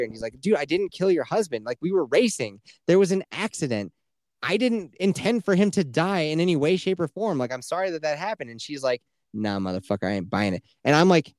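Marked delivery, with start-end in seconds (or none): 0.4-8.5 retold protest, a touch higher; pleading defence. Accused racer explains the accident to the widow, mildly pleading. 9.3-10.6 lower, unconvinced retold reply; dismissive refusal. Widow answers the racer's excuse, low and dismissive.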